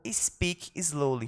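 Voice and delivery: very slow and soft, drawn out; slow model phrase. Shown as a demonstration. Teacher demonstrating to class, very slow. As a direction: stretch every word for learners. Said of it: "teacher models phrase slowly".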